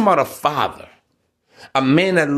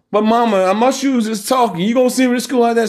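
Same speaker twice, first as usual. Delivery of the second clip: mock kid pleading; 6 semitones higher than usual.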